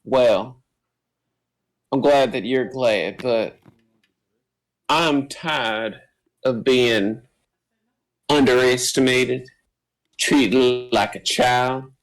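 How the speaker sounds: lightly voiced, halting for emphasis between phrases; measured, understated grievance, each phrase set apart; stutter-free daughter. Daughter confronting her father, lightly voiced, fluent and deliberate. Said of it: "the stutter in her voice is gone".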